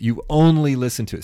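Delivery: pejorative. Shown as a demonstration. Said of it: "See how pejorative that was?".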